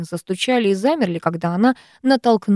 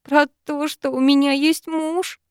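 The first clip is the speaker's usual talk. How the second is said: put-on higher tearful girl's voice; lightly raised heroine voice; heroine's voice; 7 semitones higher, slower than usual. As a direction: voice her small and upset.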